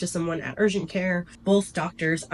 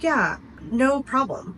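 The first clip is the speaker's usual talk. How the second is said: sweet reassurance; 8 semitones higher, slower than usual. Retold or imitated. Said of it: "so sweet".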